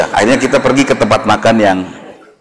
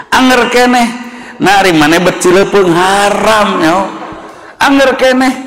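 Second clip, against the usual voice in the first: angry scolding; 10 semitones higher than usual. Retold or imitated. Father finally scolding a disobedient child, much higher and angry. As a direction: let the anger climb on every phrase. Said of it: "intonasi yang meningkat".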